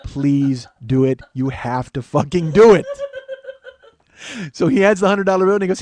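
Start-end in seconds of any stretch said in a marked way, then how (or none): 0.0-2.9 slow plea swelling to a loud finish; insistent begging that builds; building inner plea. Retold or imitated. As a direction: urge it on, drawn out, then punch the end. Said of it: "in my head, I go".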